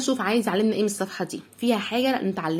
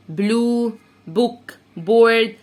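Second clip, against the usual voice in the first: بوك بورد slow and loud on بورد; loud review; 4 dB louder, much slower than usual. Shown as a demonstration. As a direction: call out بورد. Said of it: "review words". (مراجعة بصوت عالي)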